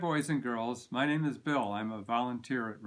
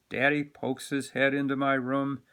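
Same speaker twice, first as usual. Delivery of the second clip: lively storytime read-aloud, louder; animated picture-book narration; reading to children; 3 dB louder than usual. A narrator's reading.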